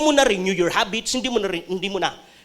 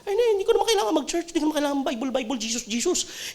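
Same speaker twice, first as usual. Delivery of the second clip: dismissive humanist; 6 dB quieter, faster than usual. Acted. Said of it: "May mga tao nagsasabi".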